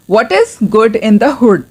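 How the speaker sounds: "What is" as two distinct words; full form. Shown as a demonstration. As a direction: say "What is" uncontracted. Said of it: "full form के साथ पढ़ूंगी".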